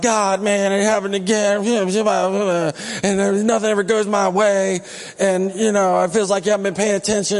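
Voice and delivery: complaining, whining to God; mock whiny complaint; whiny prayer voice. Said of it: "whiny prayer voices".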